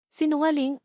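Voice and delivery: high, snarled accusation. A narrator's reading. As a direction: spit the word at him. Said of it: "angil ni Isabelle".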